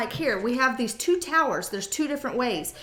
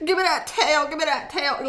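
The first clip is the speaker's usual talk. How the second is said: slow, louder, laughing craving; lusty guy voice; 5 semitones higher, 6 dB louder than usual. Acted. Guy admitting he wants the girl, hammed-up hungry. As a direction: ham up the wanting with a laugh. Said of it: "where they're like".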